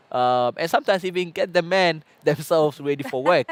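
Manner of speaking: laughing through the joke. Real, not acted. Host joking about husbands, laughing. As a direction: chuckle out the punchline.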